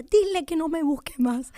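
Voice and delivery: mock frantic yell at the preacher; like a crazy woman. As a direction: shout it off like you're losing it. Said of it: "así como una loca".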